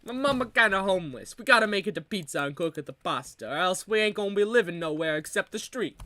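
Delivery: playful pleading Italian immigrant voice; mock Italian accent. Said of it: "who does this Italian accent".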